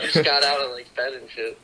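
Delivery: groggy morning-after voice; hungover. Real, not acted. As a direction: sluggish hungover mumble. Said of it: "I'm hungover right now".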